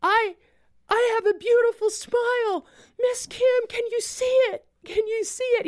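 put-on very high, jubilant child's voice; excited little boy. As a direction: call out like a thrilled child. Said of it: "he, he says".

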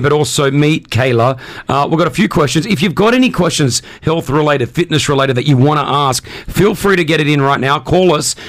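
upbeat radio announcer plug. Acted. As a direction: sell it like a radio host. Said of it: "My radio voice good or what?".

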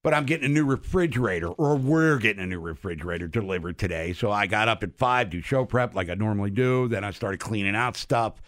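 lisping without dentures; speaking without teeth in; toothless. Real, not acted. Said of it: "if I'm lisping a little more than normal".

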